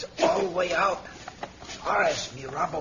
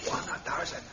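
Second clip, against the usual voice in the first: Flüstern; 3 dB quieter than usual. Acted. Whispering at the prison window.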